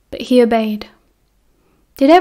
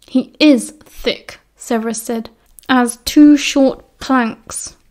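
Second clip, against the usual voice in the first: slow sneer; slower than usual. Acted. Snape sneering at Remus.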